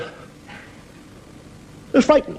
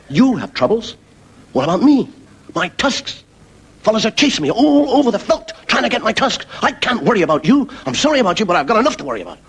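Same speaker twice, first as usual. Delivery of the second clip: complaining elephant; 10 semitones higher than usual. Acted. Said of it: "the elephant looks down and goes".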